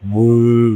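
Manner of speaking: "বুং" opening close to a b, then a held nasal; waw sounded like ba. Shown as a demonstration. Teacher explaining waw with pesh, "বুং" said with a ba-like start. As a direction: start "বুং" almost like ba and hum out the ending. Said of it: "অনেকটা বার মতো উচ্চারণ হয়".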